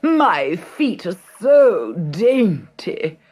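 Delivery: high, loud, slow shriek. A narrator's reading. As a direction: shriek like a vain stepsister. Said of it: "shrieked Gertrude".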